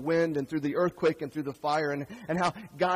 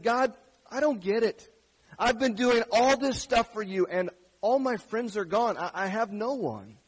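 anguished plea; 5 semitones higher, 5 dB louder than usual. Acted. Elijah tells God how he really feels, higher, louder, desperate. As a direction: plead like a man at the end of himself.

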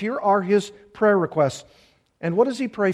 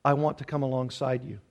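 softer, gentle consoling voice; caring voice, drawing close; tender comfort; 4 semitones lower, 7 dB quieter than usual. Retold or imitated. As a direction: comfort someone who is hurting. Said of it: "who says".

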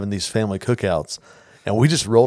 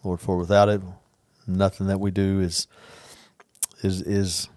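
spoken prayer; 3 semitones lower, 3 dB quieter than usual. Real, not acted. Leads a closing prayer.

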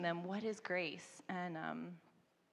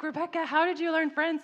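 high, loud, astonished question; amazed teachers; 10 semitones higher, 11 dB louder than usual. Retold or imitated. Language teachers asking Rebecca how she learned French, amazed. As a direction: demand to know, amazed. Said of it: "They're like".

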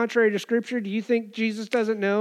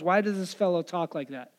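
softer, inward aside; thinking to themselves; 3 semitones lower, 8 dB quieter than usual. Retold or imitated. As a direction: say it softly, as a private thought. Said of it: "They were thinking to themselves".

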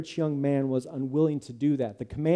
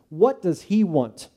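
slow, louder, higher demand; angry; 4 semitones higher, 5 dB louder, slower than usual. Acted. Judah demanding to know why the tax collector came, angrily. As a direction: bite out each word in anger. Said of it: "sudden anger".

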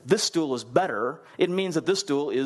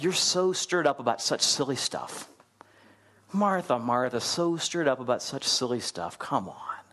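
gentle, playful chiding; 2 semitones lower than usual. Shown as a demonstration. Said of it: "It's very gentle".

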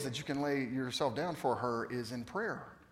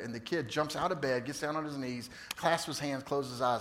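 ordinary delivery

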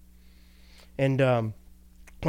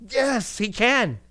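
high, loud affirmation; exclaiming yes he can; emphatic yes; 8 semitones higher, 5 dB louder, much slower than usual. Real, not acted. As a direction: proclaim it with a burst of energy.

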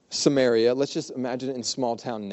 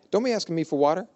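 sassy retort; 4 semitones higher, faster than usual. Retold or imitated. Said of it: "her response is sassy".

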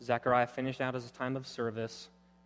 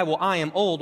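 mock protest with stress on "I"; mimicked emphatic "I"; 3 semitones higher, 4 dB louder than usual. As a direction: throw the stress onto "I" in "I am old". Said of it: "your emphatic".

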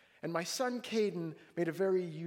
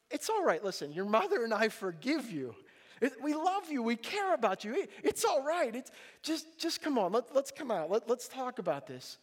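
reassuring father; 6 semitones higher than usual. Retold or imitated. Father reassures forgiven son.

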